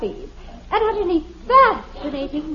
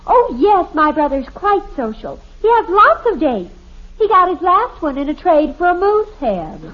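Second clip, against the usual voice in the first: mock refined; 4 dB louder than usual. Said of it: "Can't you just hear me saying".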